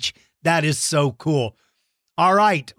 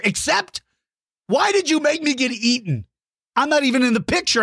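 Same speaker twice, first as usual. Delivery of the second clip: mock whine; 8 semitones higher than usual. Mock complaint.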